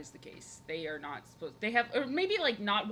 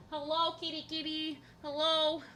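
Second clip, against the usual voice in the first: higher sing-song pet greeting; cooing at the cat; 8 semitones higher than usual. Real, not acted. Streamer greeting her cat, a higher cooing call. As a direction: coo hello to the kitty.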